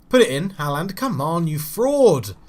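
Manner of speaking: loud, urgent shout at the screen; yelling at the striker. Real, not acted. Gamer shouting at his striker during a counterattack, loud and urgent. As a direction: bark at Haaland to finish it.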